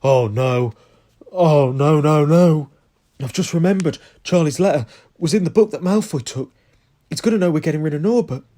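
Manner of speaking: loud, high panicked Ron, words rushing; panicked shout. Acted. Ron realising Malfoy has the letter, loud and panicked. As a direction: shout it in rising panic, like the worst news yet.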